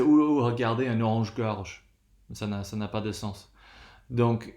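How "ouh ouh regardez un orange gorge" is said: mock excited exclaim. Teacher mocking a nonsense compound: playful excited call. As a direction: pretend to spot a silly bird. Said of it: "you're not gonna say".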